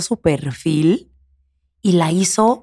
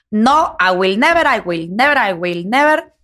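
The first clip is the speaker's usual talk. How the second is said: slow, drawn-out mock-defiant "never", repeated; imitated emphatic vow, slow and insistent; defiant refusal; slower than usual. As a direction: retell a stubborn refusal, stretching each phrase in waves. Acting out Salma Hayek's refusal.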